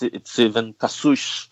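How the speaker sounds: guest showing how Rio speakers shush "Cassius"; Rio accent. Shown as a demonstration. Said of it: "my accent from Rio".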